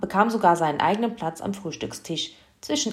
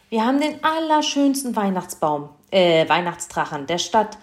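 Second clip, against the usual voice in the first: proud and delighted; 3 semitones higher, 5 dB louder than usual. Acted. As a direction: announce it with pride. Mother proudly announcing.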